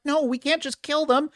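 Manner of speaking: Lucy protesting to Maximus. Retold or imitated. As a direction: object with alarm.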